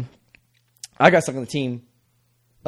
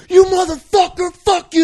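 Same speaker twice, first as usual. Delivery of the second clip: high, furious mock yell at the catcher; angry kicker; 11 semitones higher than usual. Angry kicker cursing the boy who caught his ball, high furious mock yell. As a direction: spit the curse out like a raging kicker.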